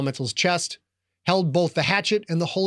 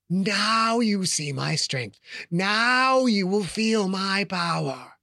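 ancient rasping undead king; 4 semitones higher, much slower than usual. Acted. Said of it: "the Lich said".

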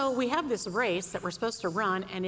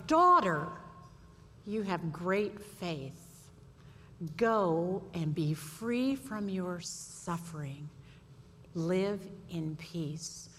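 tender Jesus; 3 semitones lower, much slower than usual. Acted. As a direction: call her, then bless her gently. Jesus speaking to the woman.

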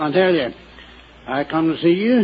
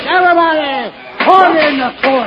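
high, raised judge's shout; calling for order; 9 semitones higher than usual. Acted. Mock judge calls for order.

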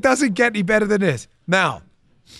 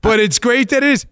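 higher, through laughter; laughing punchline; 5 semitones higher than usual. Real, not acted. Host finishes his running joke for listeners, laughing. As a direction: get the punchline out while laughing.

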